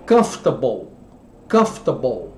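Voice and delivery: comfortable said with a Brazilian-free English ending, kum-fter-bol; English word comfortable. Shown as a demonstration. Teacher modeling comfortable for Brazilian students, careful pronunciation. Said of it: "Então, a palavra".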